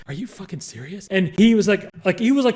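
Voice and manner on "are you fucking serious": very soft, incredulous aside; hushed disbelief; under the breath. Retold or imitated. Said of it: "under her breath".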